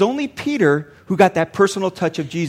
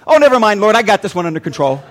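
mock casual brush-off, loud then dropping; breezy dismissal; 6 dB louder, faster than usual. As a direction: wave God off as if self-sufficient. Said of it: "everything kinda evens out, and you go".

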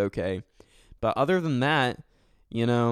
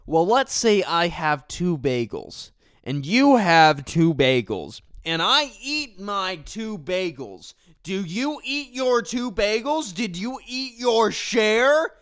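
higher, slower, put-on silly voice; mock explaining; 8 semitones higher, 5 dB louder than usual. Explaining bagel math to a baffled stranger, in a high silly put-on voice. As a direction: explain it like a deranged teacher.

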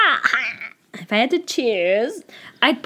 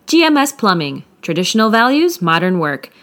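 ad read; 3 dB louder than usual. Acted. Sponsor ad read.

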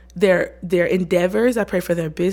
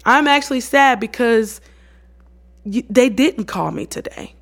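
higher start, easing back to normal; mildly childlike, straightforward honesty; simple, childlike admission; 3 semitones higher than usual. Acted. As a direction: confess a small hurt very simply. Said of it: "simple and childlike".

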